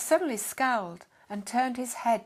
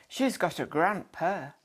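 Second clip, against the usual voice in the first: put-on broad Yorkshire accent; 3 semitones lower, 4 dB louder than usual. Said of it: "in his broad Yorkshire accent".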